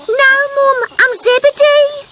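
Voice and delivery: put-on high, loud kid-frog correcting mum; little frog voice. A narrator's reading. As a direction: insist on your own name. Frog and mother exchange.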